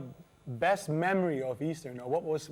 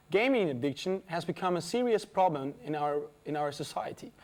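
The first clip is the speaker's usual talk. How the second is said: lightly formal news-programme read; scripted studio link read; presenter's link. Acted. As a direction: introduce the next report to the audience. Presenter reads link to next item.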